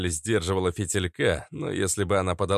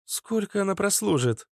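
quick question; 11 semitones higher than usual. A narrator's reading. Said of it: "быстро спросила Наташа".

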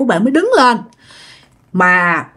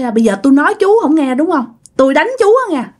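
annoyed warning; 5 semitones higher, faster than usual. Retold or imitated. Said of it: "ông thầy lúc đó ổng cũng bực bội".

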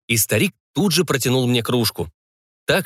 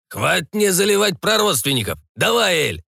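high, demanding pirate voice; rowdy pirate, higher; pushy pirate; 8 semitones higher than usual. A narrator's reading. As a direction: demand the ale.

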